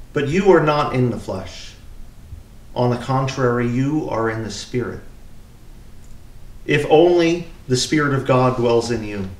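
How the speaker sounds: measured, solemn lectern reading; scripture reading. Acted. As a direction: read it out as the lesson at Mass.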